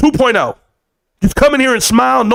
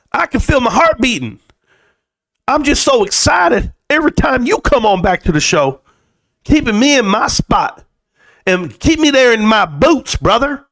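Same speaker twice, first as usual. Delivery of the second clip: put-on Southern accent; 3 semitones higher than usual. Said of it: "I just got Southern out of fucking nowhere".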